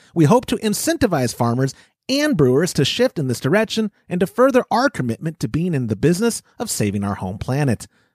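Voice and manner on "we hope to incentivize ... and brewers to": plain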